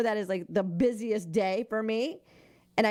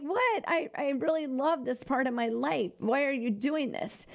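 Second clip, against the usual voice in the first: dismayed protest; 5 semitones higher than usual. Retold or imitated. Quoting her own protest to God.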